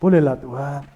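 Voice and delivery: mock-whiny plea to God, mostly in own voice; whining Moses. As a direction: lightly play Moses begging God. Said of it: "Sampai Musa merengek".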